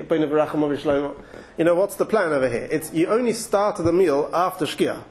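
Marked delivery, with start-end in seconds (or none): 0.0-1.1 quick, hurried recital; mock rushed blessing; rushed mumble. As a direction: rattle it off quickly to skip past. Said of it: "quickly say".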